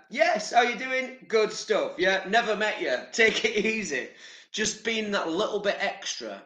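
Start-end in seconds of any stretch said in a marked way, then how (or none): 0.1-4.1 mock cheery greeting. Vlogger acting out friendly chat with a stranger. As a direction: greet like everyone's your mate. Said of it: "So going out there".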